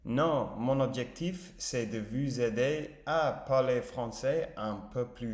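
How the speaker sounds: careful imitation of a French speaker; shadowing native pronunciation. Shown as a demonstration. Learner echoing a paused French video line, careful shadowing. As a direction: repeat it as close to the native model as possible. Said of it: "je vais essayer de répéter".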